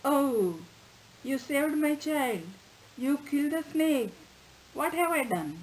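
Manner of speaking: storyteller's mild sobbing lament; anguished cry. Acted. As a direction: cry out in remorse over the dead pet. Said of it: "she cried".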